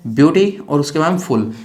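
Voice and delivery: ब्यूटी, then फुल as a separate part; two-part split. Shown as a demonstration. Teacher showing students the syllables, ब्यूटी and फुल split apart. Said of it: "दो भागों में बोलते हैं ना".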